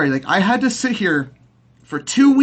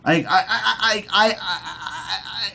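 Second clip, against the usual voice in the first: flustered laugh; 4 dB quieter, slower than usual. Real, not acted. Sputtering, laughing then breaking.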